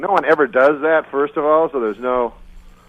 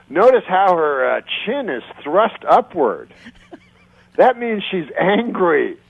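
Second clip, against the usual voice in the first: mock body language expert; 5 semitones higher than usual. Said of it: "the woman goes".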